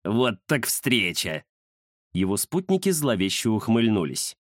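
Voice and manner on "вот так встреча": slow, mean-spirited drawl; slow sneering villain. Acted. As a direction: sneer it out slowly. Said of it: "противно захихикал".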